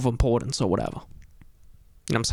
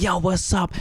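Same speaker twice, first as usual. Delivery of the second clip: hype greeting; 5 semitones higher than usual. Retold or imitated. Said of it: "I wanted to go up there and be like".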